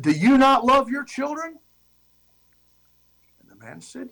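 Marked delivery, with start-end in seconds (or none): 0.0-1.6 higher, startled demand; shocked rebuke. Retold or imitated. Chief confronting missionary, in a shocked higher rebuke. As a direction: recoil and challenge him. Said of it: "reacted in almost a violent way".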